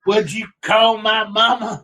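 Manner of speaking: high, slow, put-on tough guy; mock street tough. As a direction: ham up a street fight threat. Mock fight with mushroom bag.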